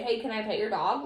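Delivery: even, calm request; calm polite ask. Shown as a demonstration. Showing how a calm kid asks, even and gentle. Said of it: "calmly and say".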